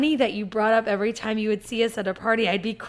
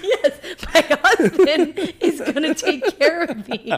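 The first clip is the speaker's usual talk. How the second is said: slow, high laughing mock; mock your younger self while laughing; laughing mockery; 5 semitones higher, 5 dB louder than usual. Mocking her past drunk self.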